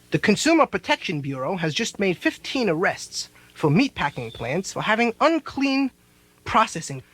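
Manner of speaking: mock newsreader, hushed and serious; news report voice. Mocking the news on TV with an announcer read. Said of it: "they said".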